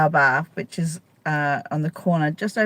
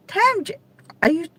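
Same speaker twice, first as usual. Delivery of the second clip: surprised. Real, not acted. Reacting to a viewer comment.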